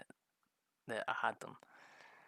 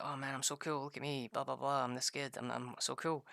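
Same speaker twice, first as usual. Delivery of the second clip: mock show-off; 3 semitones higher than usual. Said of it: "And he's like".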